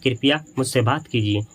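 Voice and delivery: soft polite "कृपया मुझसे बात कीजिए" with कृपया leading; polite request. Shown as a demonstration. Teacher to students, demoing a polite request. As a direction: ask gently, a courteous request. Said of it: "एक polite request की तरह आपसे बोलता".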